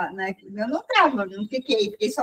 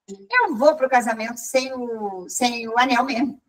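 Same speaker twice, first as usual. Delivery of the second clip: hesitant decision. Retold or imitated. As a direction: think it through as you say it. Slow take of the decision.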